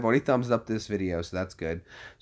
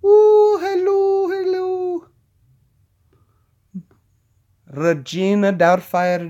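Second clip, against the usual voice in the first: put-on very high, hooting old-lady hello, then drawn out; slow, high comic character voice; Robin Williams; 9 semitones higher, 5 dB louder, slower than usual. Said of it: "Like, like Robin Williams".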